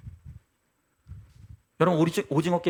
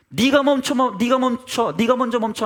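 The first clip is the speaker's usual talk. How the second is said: mock finger-pointing demand; 4 semitones higher, 4 dB louder than usual. Acts out people blaming each other.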